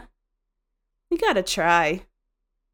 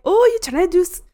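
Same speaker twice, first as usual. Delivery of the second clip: higher teasing call-out; mock-accusing ribbing a friend; playful higher tease; 8 semitones higher, 5 dB louder, faster than usual. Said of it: "and I was like".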